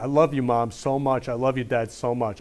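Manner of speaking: low, soft heartfelt thanks; tender. Real, not acted. Son telling Mom and Dad he loves them, tender. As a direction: speak it gently to your parents.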